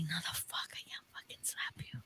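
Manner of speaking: voiceless whisper, horrified she'd slap him; shocked whisper. Retold or imitated. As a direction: mouth it under your breath in disbelief. Retold shocked refusal to slap.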